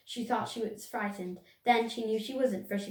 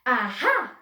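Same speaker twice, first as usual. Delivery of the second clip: weak aha; 2 semitones higher, 8 dB louder than usual. A narrator's reading. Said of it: "it wasn't a very good aha".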